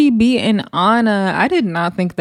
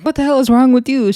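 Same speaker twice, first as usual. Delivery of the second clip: higher, lightly indignant quote; retold indignant outburst, pitched up; mock outrage; 6 semitones higher, 4 dB louder, faster than usual. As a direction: imitate an affronted fighter.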